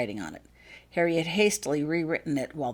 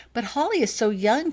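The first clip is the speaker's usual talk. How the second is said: protesting; 7 semitones higher, 4 dB louder than usual. Acted. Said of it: "protested Laurel".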